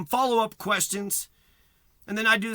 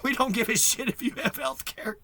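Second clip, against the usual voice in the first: laughing mockery; 2 semitones higher, 6 dB quieter than usual. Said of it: "Americans would just be like".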